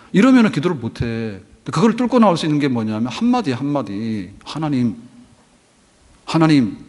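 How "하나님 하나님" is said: calling God's name. Shown as a demonstration. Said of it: "이렇게".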